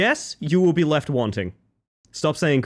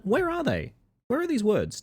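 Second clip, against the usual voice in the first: high searching voice; 10 semitones higher, 4 dB quieter than usual. Acted.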